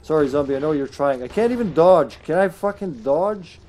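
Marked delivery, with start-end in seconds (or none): 1.2-3.6 slow exasperated demand; frustrated. Real, not acted. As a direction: draw it out in frustration. Frustrated at failed dodge.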